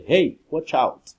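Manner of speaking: high, loud and slow call for attention; urgent hey watch out; warning call. Shown as a demonstration. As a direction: warn someone of danger. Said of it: "commands or attention".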